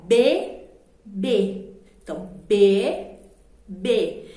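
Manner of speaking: "B" as a drawn-out, separate syllable each time. Shown as a demonstration. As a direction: open the mouth fully for each "B". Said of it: "Eu abri duas vezes a minha boca".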